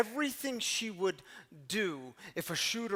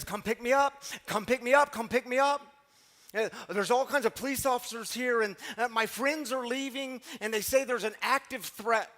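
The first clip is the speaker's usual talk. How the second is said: daughter's panicked plea, louder and higher, retold; urgently begging to be picked up, imitated; 4 semitones higher, 4 dB louder than usual. Daughter on the phone begging dad to come, retold panicky plea. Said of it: "she's panicking, she's frantic".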